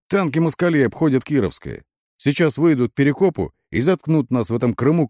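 high, agitated rant; frantic yelling. A narrator's reading. Батон warns the lieutenant about tanks, ranting. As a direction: harangue him like a man possessed. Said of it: "Батон орал как припадочный".

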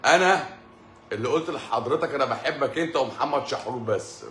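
caller's line with a laugh; loud, laughing imitation of the caller; mock loud caller.

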